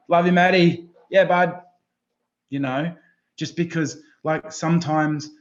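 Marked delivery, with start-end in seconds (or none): 0.1-1.6 louder, lifted cheer from a fan; imitated supportive follower. Follower replying to Matt's post, supportive cheer. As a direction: lightly mimic a mate cheering him on.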